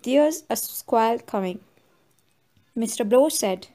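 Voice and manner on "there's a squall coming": put-on mildly plaintive drunk old man; a touch of a whine, lightly voiced. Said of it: "said plaintively".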